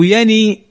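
يني as "yani", i after the n; noon with kasra. Shown as a demonstration. Teacher showing what we do not say, يني ending in i. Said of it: "لم نقل".

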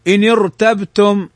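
إن ارتبتم with a thick r after the i; heavy ra. Shown as a demonstration. Teacher recites إن ارتبتم as exception, heavy ra. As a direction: join إن ارتبتم, keeping the r heavy. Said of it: "فهنا تفخم".

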